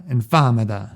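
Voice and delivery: "infamida" New York style, t softened to a d; the Don's pronunciation. Shown as a demonstration. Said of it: "The way the Don pronounces is".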